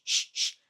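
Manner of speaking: unvoiced hushing "sh, sh"; "sh" said alone, without voice; sound demo. Shown as a demonstration. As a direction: isolate "sh" as short bursts of hiss. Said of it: "o S C H faz som de sh".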